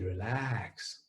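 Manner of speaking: a soft low Relax; quiet reassuring Relax to oneself; calm self talk. Shown as a demonstration. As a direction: ease the word Relax out gently. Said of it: "tell yourself your name and say".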